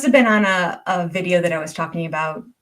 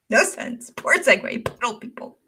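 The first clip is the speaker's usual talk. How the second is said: relishing the punchline; 4 semitones higher than usual. Real, not acted.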